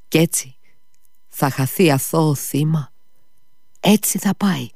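put-on high, rising outcry of a boy; indignant exclamation. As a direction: cry out at the injustice, pitch climbing. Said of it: "αναφώνησε ο Κόλια". (αγανακτισμένο ψηλό ξέσπασμα)

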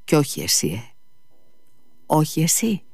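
understated outburst, lifting on the repeat; unrestrained exclamation. A narrator's reading. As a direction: blurt it, unable to hold back. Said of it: "ξεφώνησε μη μπορώντας να συγκρατηθεί".

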